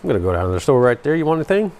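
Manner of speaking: quick, run-together Southern accent, rising at the end; fast demonstrated Georgia twang; Georgia accent, dropped T's. Shown as a demonstration. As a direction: rattle it off Georgia-style without T's. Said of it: "People don't say T's in Georgia".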